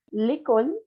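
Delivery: "l'école" with a closed first E. Shown as a demonstration. Teacher explains accents mark vowel sounds, "l'école" with closed E. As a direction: keep the E of "l'école" narrow, lay-KOL. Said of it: "suena una E cerrada".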